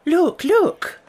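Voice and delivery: high, loud excited exclamation; eager cry. A narrator's reading. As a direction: point it out with urgent excitement. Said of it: "she cried, pointing eagerly".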